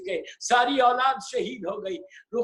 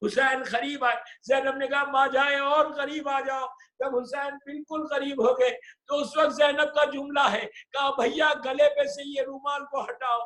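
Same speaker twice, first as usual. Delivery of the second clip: impassioned lament preaching; 2 semitones higher than usual. Acted. Preacher wails the farewell to the mourners, full-voiced lament.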